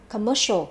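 "commercial" stressed on "mer"; stress on second syllable. Shown as a demonstration. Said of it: "nhấn vào âm nhị". (nhấn âm thứ hai trong "commercial")

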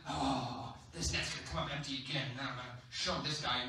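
low, soft grumble to yourself; grudging, sulky complaint under the breath; grumbling. Acted. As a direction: play a put-out fisherman grumbling. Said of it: "he's still grumbling".

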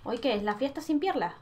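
ordinary delivery

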